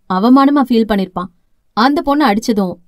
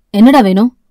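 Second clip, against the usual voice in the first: startled; 2 semitones lower, 5 dB louder than usual. Acted. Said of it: "என பதறி எழுந்தான்".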